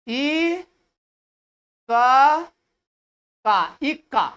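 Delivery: ई and क sounded out apart, then joined as इक्का; stress demonstration. Shown as a demonstration. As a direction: break इक्का into drawn-out syllables. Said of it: "ज्यादा डल, डल दिए".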